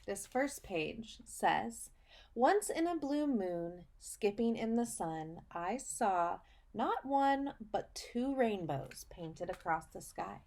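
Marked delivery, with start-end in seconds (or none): 2.3-10.4 slow, sing-song picture book read; reading to children. Acted. Teacher reading a picture book to her students, storybook voice. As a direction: read it like storytime for little kids.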